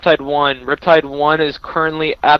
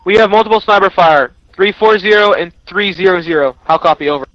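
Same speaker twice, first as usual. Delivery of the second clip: urgent radio call; 4 semitones higher, 4 dB louder than usual. Acted. Reporting incoming sniper fire.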